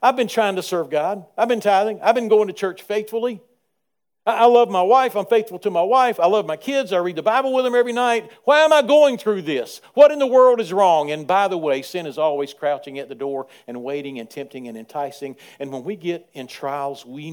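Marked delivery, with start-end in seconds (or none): 0.0-11.1 loud, high aggrieved outburst at God; frustrated complaint. Pretend. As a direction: vent the hurt like a wronged believer. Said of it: "this line of thinking that says".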